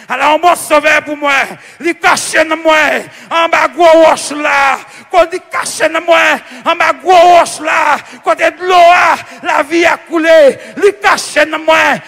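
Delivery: rhythmic, insistent sermon refrain; projected pulpit cadence; forceful preaching. Real, not acted. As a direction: proclaim it in measured, emphatic phrases.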